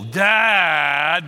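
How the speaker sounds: mock exasperated teen; lightly imitated eye-roll; teen rolling her eyes at dad. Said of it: "that's the roll".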